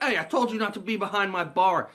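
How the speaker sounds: a bar owner barking at the drifter; tough bar owner. Retold or imitated. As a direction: warn him off the bar. Angry bar owner confronts Willie.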